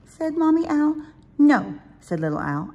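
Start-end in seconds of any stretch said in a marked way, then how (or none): 1.4-1.7 loud. Acted. Child refusing bedtime.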